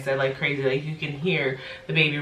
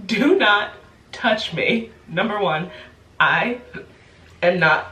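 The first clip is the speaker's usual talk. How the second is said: sharp, higher, louder scolding; firm angry warning; 4 semitones higher, 4 dB louder, slower than usual. Retold or imitated. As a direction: lay down the law. Scolding the man who touched.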